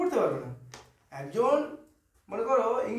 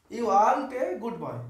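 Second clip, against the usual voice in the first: put-on You aren't a good boy said very slowly, word by word; slow demo; much slower than usual. Shown as a demonstration. Teacher models the sentence slowly for students. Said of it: "উচ্চারণ কী হবে".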